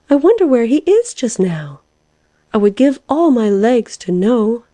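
high, wistful wondering; wondering caterpillar. A narrator's reading. Caterpillar longing for news of the lark, high and wondering.

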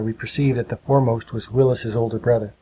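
ordinary delivery

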